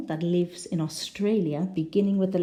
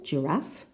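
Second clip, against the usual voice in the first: "giraffe" stressed on the second syllable, rising at the end. Shown as a demonstration. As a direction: lean on the last syllable of "giraffe". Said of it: "the second syllable".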